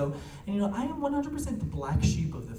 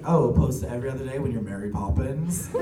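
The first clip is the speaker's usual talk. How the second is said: understated deadpan retort; dry grandmother; 2 semitones lower than usual. Retold or imitated. Grandmother answering the grandchild's bad-mood apology, dryly. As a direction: lightly imitate a grandmother's dry sarcasm. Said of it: "she's very dry".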